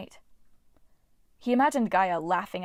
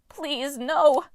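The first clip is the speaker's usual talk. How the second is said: high, loud dwarf wail; 6 semitones higher, 6 dB louder than usual. A narrator's reading. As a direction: cry out in despair. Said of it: "Akmon wailed".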